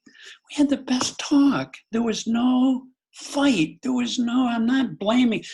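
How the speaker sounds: father voicing his teenage daughter's protest, high and slow; imitating teen daughter.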